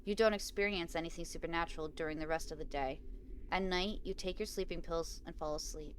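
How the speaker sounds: measured read-aloud of a game story; story narration. A narrator's reading. Player reading Bob's condolences aloud, measured story narration. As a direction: read it out evenly, pausing between phrases.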